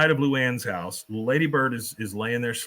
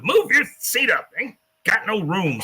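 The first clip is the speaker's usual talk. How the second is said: much higher and louder cranky yell; yelling old man; 9 semitones higher, 5 dB louder than usual. Retold or imitated. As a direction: holler at the seat in front. Cotton yelling at passengers.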